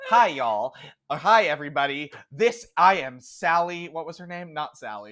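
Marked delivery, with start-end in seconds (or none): 0.1-3.9 higher Southern news anchor voice; perky Southern reporter greeting viewers; Southern accent. Acted. Game master voicing anchor, Southern accent. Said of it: "I can only do Southern".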